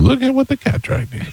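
high, sing-song southern accent. Shown as a demonstration. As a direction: put on your best Southern belle greeting. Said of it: "That's my southern accent".

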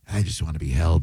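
mock the tough host as a cuddly softie; soft baby-ish plea. Co-host mocking the radio host's soft side, low and hushed. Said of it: "he gets off the air and he's like".

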